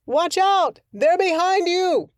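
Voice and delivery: shouted warning. Acted. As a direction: yell the warning down. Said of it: "Mister Helpful shouted".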